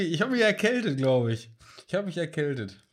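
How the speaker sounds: hoarse voice from a head cold. Real, not acted. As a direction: sound stuffy and a bit rough with a cold. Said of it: "Ich hab Husten und ein bisschen Schnuppen". (erkältete, heisere Stimme)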